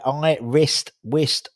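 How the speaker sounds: "I wrist, whist" in separate, careful pieces; broken-down syllables. Shown as a demonstration. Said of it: "Oh, I can't".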